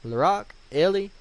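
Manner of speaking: grave Gerontius. Acted. Warning Larock and Ellie to protect themselves, emphatic. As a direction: deliver a solemn warning to your companions.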